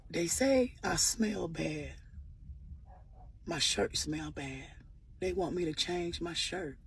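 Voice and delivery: slow and soft, a lightly voiced hurt boy; softly imitating a boy who feels ashamed; quiet hurt boy. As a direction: let the words come slow and small. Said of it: "He came up to me so quietly".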